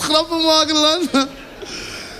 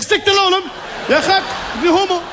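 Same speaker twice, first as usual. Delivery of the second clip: scheldend; 6 semitones higher than usual. Acted. Driver curses at singer.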